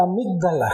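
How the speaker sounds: "amígdala" con la sílaba "míg" acentuada; acento en la I. Shown as a demonstration. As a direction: marca con fuerza la "í" de "amígdala". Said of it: "con acento en la I". ("amígdala", esdrújula, con acento en la í)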